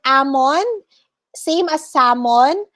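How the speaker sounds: salmon with no l sound; silent L. Shown as a demonstration. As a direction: say salmon as "sa-mon". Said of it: "the letter L is not pronounced".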